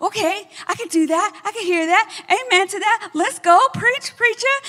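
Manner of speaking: rising, slowing cheer of amen and preach; imitating an eager churchgoer egging on the pastor; excited cheering. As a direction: hype up the preacher from the pew.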